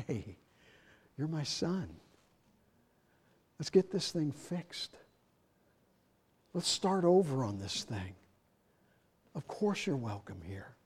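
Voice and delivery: gently welcoming the returning son; soft father. Retold or imitated. Father welcoming his prodigal son, soft and tender.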